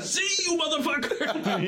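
very high, drawn-out crowing farewell; hammed-up triumphant send-off; gleeful taunt. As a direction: crow it through laughter, stretching the words. Acts gleeful send-off of banana.

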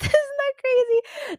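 high, laughing through the words; slow, high real laugh on the line. Real, not acted. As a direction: laugh at herself, surprised and teary. Laughing about crying again.

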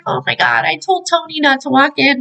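mock exasperation. Voices annoyed wife finding a puddle.

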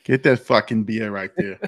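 put-on laughing, wobbly accent edging into Jamaican; accent nearly turning Jamaican. Echoing the beer pitch, accent drifting to Jamaican. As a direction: copy the accent, slipping toward Jamaican. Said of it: "I must stop before it becomes Jamaican".

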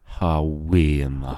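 slow, drawn-out Geordie "How we and that"; a lazy Geordie imitation; Geordie accent. Shown as a demonstration. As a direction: lay the Geordie on thick and slow. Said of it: "Aye, oh, that is my first word".

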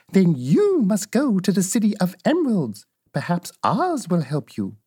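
a hint of a wise old lady; advising old witch. Old witch sending Dorothy to the city, lightly voiced advice.

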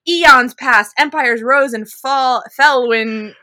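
milk it like a melodrama heroine, half joking; mock dramatic. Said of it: "so dramatic".

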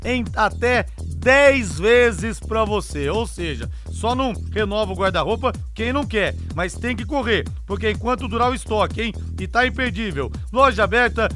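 upbeat live ad read; infomercial. Acted. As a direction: sell the sale with energy. Live ad read over music.

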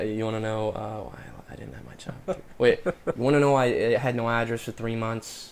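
put-on tentative New York accent, halting start. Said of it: "start with the New York accent".

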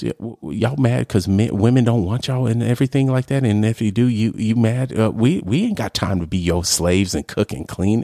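put-on Facebook girl. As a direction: imitate the girl's sassy post. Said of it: "She goes".

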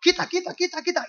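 high-pitched, hurried repeats; acted urgent push-through. Blind man bumping into everyone in the crowd, urgent. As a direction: shove through the crowd with your voice.

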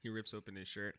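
a hushed hammed-up tough guy flexing tattoo; mock tough guy. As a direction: brag it low like a tiny biker.

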